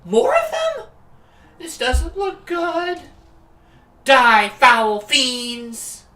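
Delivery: high, slow theatrical Shakespearean voice; Old English Imogen. Acted. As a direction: declaim it like a stage knight. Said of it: "Old English Imogen".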